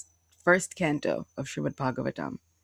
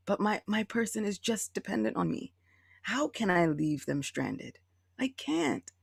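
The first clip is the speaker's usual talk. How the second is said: tender Krishna; 2 semitones higher, 6 dB quieter than usual. Pretend.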